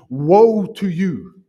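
woe drawn out slowly and loud; solemn loud woe. Retold or imitated. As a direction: pronounce the warning slowly and heavily. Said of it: "He says".

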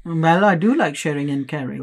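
muffled behind a hand; hand over mouth. Real, not acted. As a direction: talk through your hand. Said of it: "put your hand on your mouth when you're speaking".

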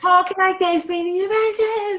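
hammed-up Liverpool mum telling off naughty kids; Liverpool accent. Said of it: "I had a Liverpool character".

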